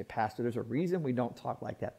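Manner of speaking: lightly voiced, hushed objection to the pastor; objecting churchgoer. Churchgoer telling the pastor there's a reason, low-key objection. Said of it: "You say".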